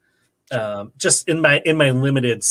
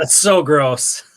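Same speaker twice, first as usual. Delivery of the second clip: slow disgust; much slower than usual. Real, not acted. Reacting to a bad trade.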